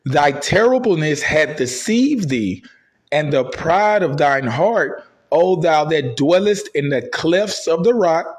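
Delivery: slow, measured scripture reading. Acted. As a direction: read it like holy writ. Reads scripture aloud.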